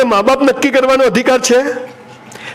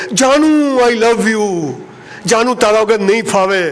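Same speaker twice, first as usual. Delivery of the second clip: lovesick madman; slower than usual. Retold or imitated. Lovesick madman shouting in cage.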